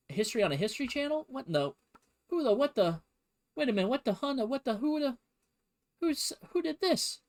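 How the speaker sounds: climbing, high-pitched fake outrage; hammed-up sputtering who-did-this panic; mock shock. Mock shock at a history topic.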